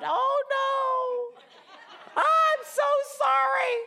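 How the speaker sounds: high flustered oh no with a laugh; Hortensia's panicked apology. Retold or imitated. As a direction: wail it like a housekeeper who just broke something. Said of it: "then you would hear the loud".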